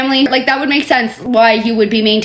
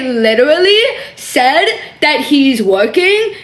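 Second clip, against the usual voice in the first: laughing; slower than usual. Real, not acted. Reading his text, laughing.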